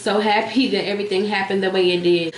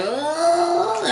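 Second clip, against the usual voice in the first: disgusted ugh; 7 semitones higher than usual. Retold or imitated. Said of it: "Kim was looking like".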